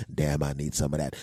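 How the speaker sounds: low, appreciative aside; admiring desire. Shown as a demonstration. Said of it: "that you're thinking".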